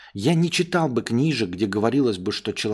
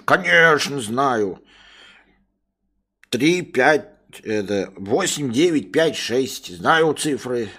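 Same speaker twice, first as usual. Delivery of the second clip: dim-witted servant; 3 semitones higher, 3 dB louder, slower than usual. Acted. Servant boasting.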